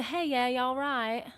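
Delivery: slow, testing imitation of Geordie; attempted Geordie accent. Shown as a demonstration. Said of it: "I wanna do the Geordie accent".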